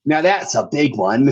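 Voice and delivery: a hint of an Aussie accent, pushing on; lightly put-on Aussie twang; Australian accent. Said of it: "the first thing I'm just like".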